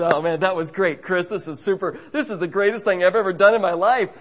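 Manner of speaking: imitating a pumped-up pal, rising in pitch and volume; excited. Crazy guy after his jump, excited gushing. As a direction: gush like someone fresh off a thrill. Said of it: "He was so excited".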